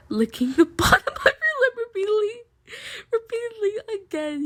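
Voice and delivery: can barely read it out; giggly flustered reading; laughing while reading. Real, not acted. Reader laughing through spicy line.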